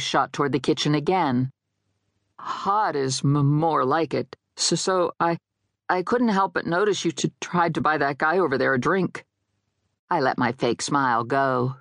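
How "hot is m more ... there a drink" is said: tripping over first sounds; stammering small talk. Acted. Dead guy at the bar chats her up, stammering. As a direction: stutter and restart while making conversation.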